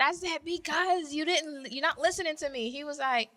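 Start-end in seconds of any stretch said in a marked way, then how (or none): 0.4-2.7 exasperated complaint. Retold or imitated. Wife tells husband he wasn't listening, exasperated. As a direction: replay a worked-up reproach.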